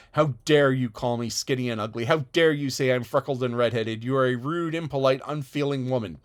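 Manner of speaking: loud indignant scolding; furious girl berating a rude woman; angry retort. Acted. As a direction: throw every insult back at her. Anne rages at Mrs Rachel.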